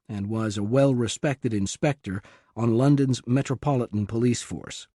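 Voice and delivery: plain reading voice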